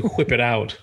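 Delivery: "whip" with a big airy HW; stretched breathy wh on "whip"; exaggerated wh. Shown as a demonstration. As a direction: blow into the start of "whip". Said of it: "I can't pronounce it like you guys".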